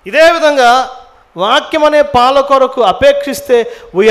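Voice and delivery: loud, insistent preacher; emphatic preaching. Acted. Preacher urging congregation to crave the word, forceful. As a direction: drive the point home at full voice.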